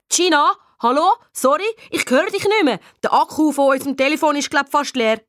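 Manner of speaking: high, put-on phone confusion; feigned bad connection. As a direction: pretend the line is dying. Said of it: "Der gute alte Batterietrick". (gspielt verwirrt)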